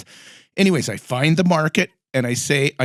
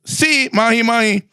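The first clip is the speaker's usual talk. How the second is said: put-on higher, slow eager kid; kid's voice; 8 semitones higher than usual. Fisherman kid answering her call, higher and slow. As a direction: lightly play the boy fisherman. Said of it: "the kid goes".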